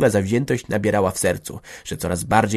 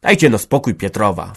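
calming interjection; 5 dB louder than usual. Acted. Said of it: "wtrąciła się Hanka".

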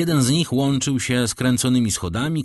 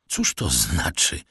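slow, cold, low demand; cold drawl; 6 semitones lower, slower than usual. A narrator's reading. Count coldly demands an explanation, slow and low. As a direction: spell it out coldly and slowly. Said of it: "wycedził hrabia głosem".

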